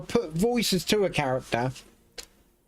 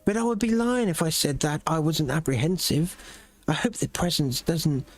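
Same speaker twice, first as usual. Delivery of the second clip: lightly voiced city officials talking over refugees; NPC dialogue voices. Officials discussing refugees in the city, measured and grave. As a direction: read it like a worried town elder.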